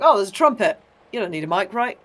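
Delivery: airy, dismissive sound engineer. Retold or imitated. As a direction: brush it off like a jaded engineer. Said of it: "The classic thing with sound engineers. It's like".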